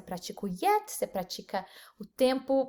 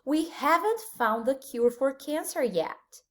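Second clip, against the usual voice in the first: slow model sentence; slower than usual. Shown as a demonstration. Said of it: "vamos ver alguns exemplos".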